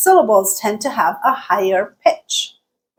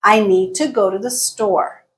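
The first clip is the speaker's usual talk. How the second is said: repeatable model statement, pitch dipping on "store"; falling intonation. Shown as a demonstration. Teacher repeating an example for learners, falling on "store". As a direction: close the sentence with "store" falling. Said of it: "Listen to the next sentence".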